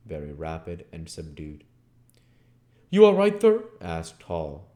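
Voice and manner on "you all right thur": calling through door. Acted.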